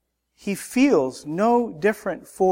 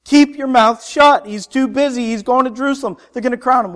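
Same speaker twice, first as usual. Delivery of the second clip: forceful rebuke; 4 semitones higher, 3 dB louder, faster than usual. Retold or imitated. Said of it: "They were forceful".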